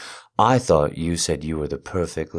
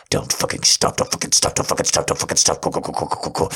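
breathy urging; much faster than usual. Acted. Urgent chanting command.

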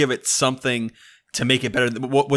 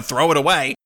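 laughing; 5 semitones higher than usual. Real, not acted. Laughing while defending chainsaw sword.

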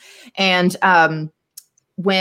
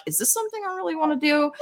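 quick questioning thought; 10 semitones higher, 6 dB quieter, faster than usual. Retold or imitated. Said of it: "be like".

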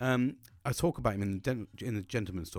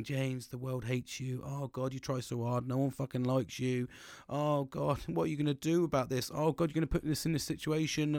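mock-gloomy inner voice, a little subdued; lightly voiced saddie, dragging out the self-doubt; Mister PTSD; 4 dB quieter than usual. The sad side of his brain nagging him, mock gloomy. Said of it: "you've got the saddie on".

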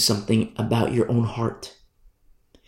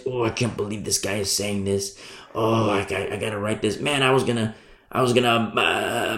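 grudging giver mutter. Retold or imitated. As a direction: grumble it under your breath. Grudging giver voiced softly.

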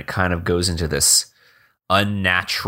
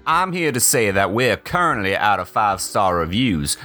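lightly voiced campy host; a hint of a flamboyant showman; campy drag queen. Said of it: "Clem Clemens".

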